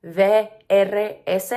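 slow, loud Puerto Rican letter names; Puerto Rican accent. Shown as a demonstration. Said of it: "in the Puerto Rican accent".

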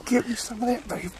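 excited whisper in the tree stand; hushed, thrilled whisper to his son. Real, not acted.

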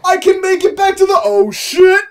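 panicked yell. Retold or imitated. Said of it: "Link's just like".

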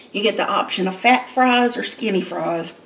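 ordinary talk

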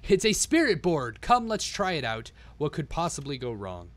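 1 exultant re-read. Shown as a demonstration. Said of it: "And then Gale ex-, exulted".

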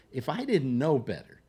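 mildly projected, imitating a loud friend; loud retold remark. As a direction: say it out for others to overhear. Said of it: "says this at the top of his voice".

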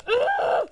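short, high-pitched ugh; high disgusted grunt. Real, not acted. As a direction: let out a high, exasperated ugh. Interrupted by game character.

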